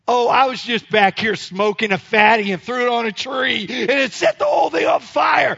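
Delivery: mock confession building to a high shout; loud, high, hammed-up sarcastic rant; sarcastic outburst. Mock confession shouted back at firemen.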